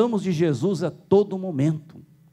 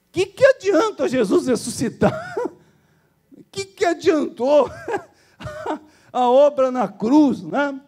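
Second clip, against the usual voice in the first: high, laughing rhetorical question; laughing indignation; 10 semitones higher, 3 dB louder than usual. Real, not acted. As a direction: laugh through the outrage. Laughing at the irony. (rindo, indignado)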